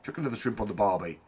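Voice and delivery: quick, half-hearted attempt at Australian; badly faked Australian accent. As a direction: have a go at an Australian accent, briskly. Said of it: "can't even do an Australian accent".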